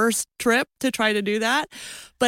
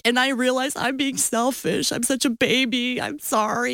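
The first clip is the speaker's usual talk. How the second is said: tearful apology; 4 semitones higher than usual. Retold or imitated. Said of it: "I start to cry, right?".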